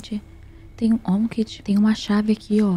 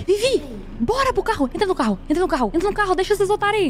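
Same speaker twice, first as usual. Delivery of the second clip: much higher, urgent excited calls; excited urging; 12 semitones higher, faster than usual. Real, not acted. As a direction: hurry the friend into the car. Urging friend into getaway car.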